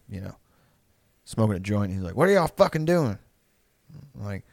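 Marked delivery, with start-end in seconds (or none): 2.2-3.2 imitating an annoyed dad, pitched up; higher-pitched mock scolding; drunk dad. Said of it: "fucking drunk".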